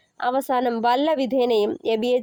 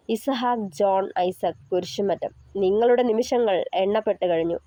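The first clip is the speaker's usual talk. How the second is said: menacing villain. Acted. Kidnapper threatens Isaac's life.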